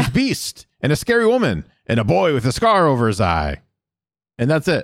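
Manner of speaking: high-pitched, hammed-up retold nun; Mother Superior. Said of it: "She's like".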